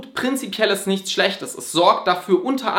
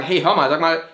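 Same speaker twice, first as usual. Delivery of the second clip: rising, higher-pitched annoyed demand; annoyed confrontation; 3 semitones higher than usual. Retold or imitated. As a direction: confront a partner who arrived an hour late. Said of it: "ärgerlich zu werden und zu sagen".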